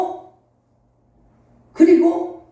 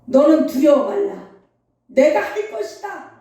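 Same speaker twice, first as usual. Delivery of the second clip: voice of God; 3 dB louder than usual. Retold or imitated. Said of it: "음성이 들려오는 거예요".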